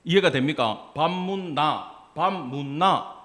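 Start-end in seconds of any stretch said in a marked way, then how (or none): 1.0-2.1 slow Gyeongsang-accented question; Gyeongsang dialect tones. Shown as a demonstration. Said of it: "성조가 달라". 2.2-3.2 slow Gyeongsang tone contrast; Gyeongsang dialect tones. Shown as a demonstration. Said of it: "성조가 달라".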